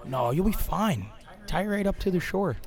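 high, mock dopey voice; mocking Cradge. Teasing the friend who insisted on tying the boat, high mock voice. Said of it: "he's like".

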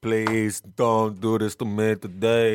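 slow, drawn-out mock plea; mock pleading. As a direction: plead slowly, in hammed-up dismay. Caesar replays pleading during his assassination.

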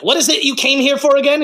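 a hint of a condescending villain; lightly voiced Yzma; imitating Yzma. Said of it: "she was like".

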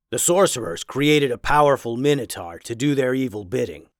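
a lightly voiced learned werewolf; scholarly werewolf.

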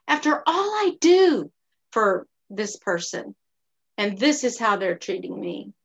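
mild put-upon grumble, mostly own voice; a touch of martyred indignation; self-pitying rant. Retold or imitated. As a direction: replay the poor-me complaint lightly. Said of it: "I even told myself things like this".

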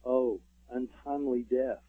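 slow, stagey Shakespearean delivery; a mild hammed-up King Lear actor; theatrical actor. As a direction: intone it like an old stage actor, drawn out. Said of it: "you hear a voice go".

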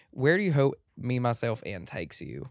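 guy's country accent. Shown as a demonstration. Host reading the question in a country accent, like a guy. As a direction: read it like a Southern guy. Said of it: "speaking like a guy".

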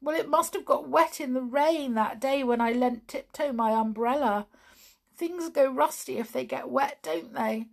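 high, thin toy clown voice; Clockwork Clown voice. Acted. Clown answering Tiptoe from his bed, high toy voice. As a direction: play the sad little clockwork clown.

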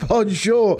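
hammed-up Fawlty Towers Bonjour; Basil Fawlty. Co-host mimicking the promo as a hammed-up Basil Fawlty. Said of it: "more like Mister Cleese, mate, of Fawlty Towers".

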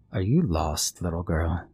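lightly voiced sly old woman. Old woman speaks to girl.

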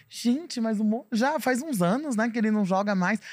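high, puzzled surprise; surprised. Retold or imitated. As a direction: act baffled at the news. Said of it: "Eu falei".

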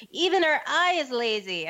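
put-on high, slow, taunting kid-brother sneer; mocking older brother. Older brother taunting his little sister, high and slow. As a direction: drag it out to mock her. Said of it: "and he was like".

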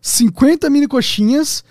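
slow, stunned listing; amazed recap. Acted. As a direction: savour each item in disbelief.

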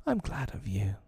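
put-on soft, small child's voice; hushed childlike fondness; affectionate little boy. A narrator's reading. Small boy hugs mother.

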